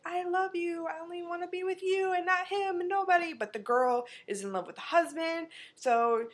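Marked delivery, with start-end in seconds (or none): 0.0-3.3 high, fast, desperate confession; desperate high pleading. Retold or imitated. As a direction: gush it out in a rush. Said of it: "she's like".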